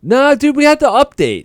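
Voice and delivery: high, loud taunting jeer, laughing through it; mock taunt. Comedian taunting rival Aruba Joe, loud mocking jeer. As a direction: jeer at the rival like a schoolyard bully. Joking repeated catchphrase.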